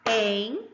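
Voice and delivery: Entrevista in four beats with long gaps: en, tre, vis, ta; clapped-out syllables. Shown as a demonstration. Teacher clapping along with pupils, Entrevista syllable by syllable. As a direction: chant Entrevista one syllable per clap. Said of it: "vamos bater junto".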